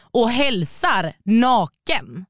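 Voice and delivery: very slow, word by word; slow punchline. Retold or imitated. Storyteller admits greeting the family, slow punchline. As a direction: stretch it out for comic disbelief.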